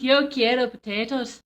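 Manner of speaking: lightly attempted Irish; a hint of Irish on the Spanish; Irish accent. Shown as a demonstration. Trying again for co-host, mild Irish accent. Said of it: "I need my Irish accent".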